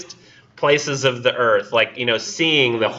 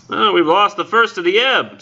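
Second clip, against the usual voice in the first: sudden call; 9 semitones higher, 4 dB louder than usual. Acted. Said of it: "said the director suddenly".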